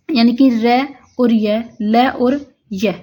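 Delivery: र और य, ल और य said slowly; slow spelling. Shown as a demonstration. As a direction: spell out each letter pair slowly. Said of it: "र के साथ में य की साउंड". (अक्षर-जोड़े धीरे-धीरे बोलते हुए)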